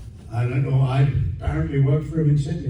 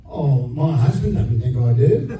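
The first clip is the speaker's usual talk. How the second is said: imitated Aussie accent, drawn out; slow mock-Aussie denial. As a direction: play it slowly with an Aussie accent. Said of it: "you've got a bit of an Aussie accent".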